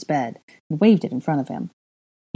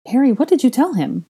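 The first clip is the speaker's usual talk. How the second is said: irritable; 9 semitones higher, 5 dB louder than usual. A narrator's reading. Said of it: "Hermione asked a bit irritably".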